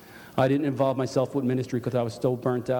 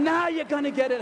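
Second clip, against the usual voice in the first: high shrieked taunt in a put-on woman's voice; retold scream; 13 semitones higher than usual. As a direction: mimic her gleeful shriek. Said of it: "She's screaming".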